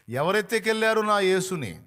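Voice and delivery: loud grieving question; anguished cry. Acted. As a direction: cry out as if he's been stolen from you. Mary's lament at the empty tomb.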